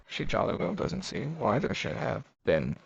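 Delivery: mildly mocking echo of Lenina's words; lightly scoffing, for an unseen audience; mocking repetition. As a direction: repeat it to an imaginary listener, a touch incredulous. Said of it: "Fanny repeated, as though to an invisible listener".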